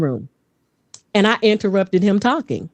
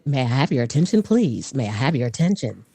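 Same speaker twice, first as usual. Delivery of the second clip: measured, lower automated announcer; 6 semitones lower than usual. Shown as a demonstration. Demonstrating the room announcement to the host, automated AI voice. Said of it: "autumn A I voice".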